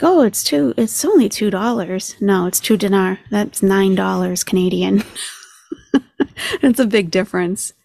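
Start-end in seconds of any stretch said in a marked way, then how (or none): 0.0-2.2 mock quote starting high, then settling; mimicking her. Reactor repeating the woman's price mistake, lightly mocking imitation. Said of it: "So she's like".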